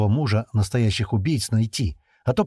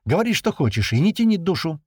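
higher, pressing; boiling over; 8 semitones higher, 3 dB louder than usual. A narrator's reading. Perfilov demands Lenka stop stalling, heated and higher. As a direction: demand she spits it out. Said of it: "вскипел Перфилов".

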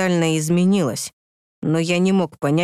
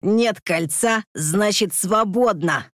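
put-on grunting drunk; 3 semitones higher, slower than usual. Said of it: "прокряхтело пьяное дерьмо".

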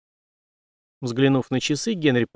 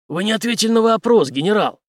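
louder, higher angry retort; 10 semitones higher, 5 dB louder than usual. Acted. Henry angrily demands an answer from the general. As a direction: press him hard, angrily. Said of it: "зло отозвался Генри".

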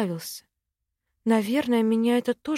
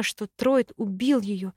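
plain reading voice

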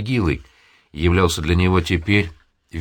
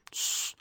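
a soft, breathless shushing hiss; hushing hiss; 15 dB quieter than usual. A narrator's reading. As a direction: shush him quietly to stop him. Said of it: "остановила его Анна Ивановна". (тихое шипение «тссс», чтобы остановить)

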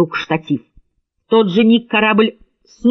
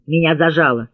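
ordinary delivery, nothing marked

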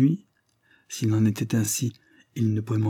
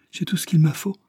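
urgent breathy whisper, pitched up; quick whisper; 8 semitones higher, 3 dB louder than usual. A narrator's reading. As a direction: hurry it out under her breath. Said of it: "dit-elle vivement".

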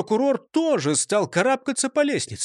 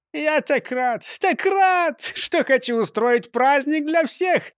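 overjoyed mayor; 7 semitones higher than usual. A narrator's reading. Mayor dancing with joy.

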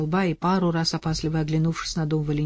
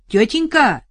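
loud, higher shout; 7 semitones higher, 8 dB louder than usual. Acted. Арсений кричит соседке, громко. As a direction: shout it to the neighbour. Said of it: "прокричал в сторону соседки".

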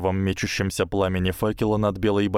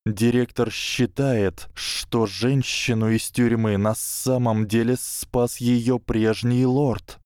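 put-on slightly raised, slow hissing boy; hissed reply; 3 semitones higher, slower than usual. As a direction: lightly hiss it out. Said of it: "Гарри прошипел в ответ".

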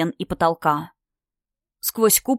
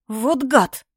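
hissed through teeth; 4 semitones higher than usual. Acted. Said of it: "процедила принцесса вслух".

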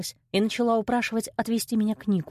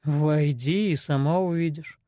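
low, flat man's voice; gruff man voice; 4 semitones lower, slower than usual. A narrator's reading. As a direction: voice the henchman low and curt. Kostey's voice in story.

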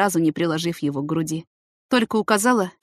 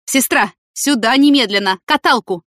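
louder urgent call down the corridor; shouting; 5 semitones higher, 7 dB louder than usual. Acted. Doctor shouting to the nurse for a gurney, loud and urgent. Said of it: "выскочил в коридор и закричал".

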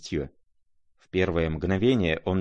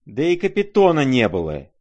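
high, raised cry; loud contradiction; 7 semitones higher, 7 dB louder than usual. A narrator's reading. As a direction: shout down the correction.

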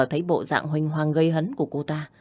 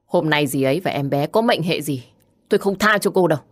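through gritted teeth; 4 dB louder than usual. Acted. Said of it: "nghiến răng".

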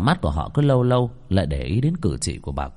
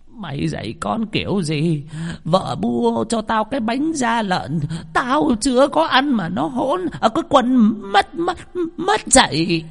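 put-on shrill old woman scolding; 13 semitones higher than usual. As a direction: screech like a possessed old granny. Possessed grandmother scolds son.

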